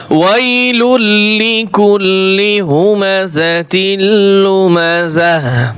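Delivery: slow, measured chant with held vowels; model Quran recitation. Shown as a demonstration. Teacher models the verse for students, slow correct recitation. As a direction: recite it carefully and melodically. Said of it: "শুদ্ধ উচ্চারণ করে শিক্ষা দেব".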